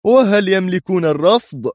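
loud, high, indignant question; heated, challenging retort; sharp. A narrator's reading. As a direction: fire it back sharply, pitch jumping up. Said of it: "أجابه الرئيس في حدة".

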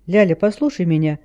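ordinary delivery

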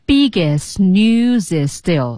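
slow "biggest news is still", words run together; careful, drawn-out "biggest news is still"; linked practice reading. Shown as a demonstration. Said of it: "按照这个实际音标的这个方式练习".

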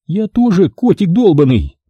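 удивлённо; surprised but friendly. Acted. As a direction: answer him warmly surprised. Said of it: "Удивлённо, но ... приветливо отозвалась она".

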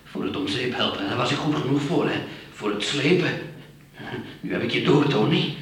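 bitter accusation. Acted. Accusing partner of using him.

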